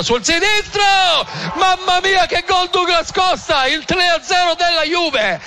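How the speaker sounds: high-pitched goal yell; goal call shout. Real, not acted. Goal call for Douglas Costa.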